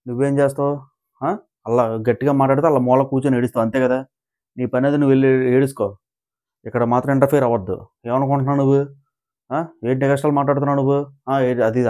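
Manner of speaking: fast, taunting mock scolding; imitating a housemate's fast, sneering put-down. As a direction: rattle off a taunting rebuke. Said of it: "అనరాని మాట అన్నదండి".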